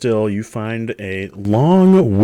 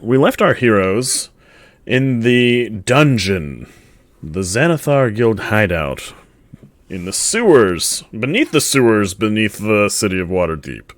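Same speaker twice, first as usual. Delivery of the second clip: dramatic scene setting. Acted. GM sets the scene.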